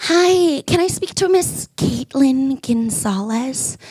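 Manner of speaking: slow, careful telemarketer. Retold or imitated. Telemarketer asking for Miss Caitlin Gonzalez, slow and unsure. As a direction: read the name off a script, unsure. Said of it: "They'll be like".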